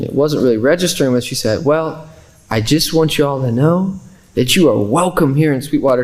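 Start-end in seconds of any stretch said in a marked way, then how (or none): 1.6-6.0 lightly voiced Southern lady; a hint of Southern twang, imitating her; Southern accent. Tennessee lady welcoming Muslim visitors, light Southern accent. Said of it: "in a very Southern accent".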